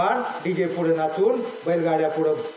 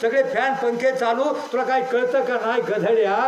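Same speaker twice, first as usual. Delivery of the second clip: imitated nagging dad, mildly raised pitch; scolding father; 2 semitones higher than usual. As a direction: reel off a light mock telling-off. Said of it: "बाप सारखा ओरडायचा". (ओरडणाऱ्या बापाची हलकी नक्कल)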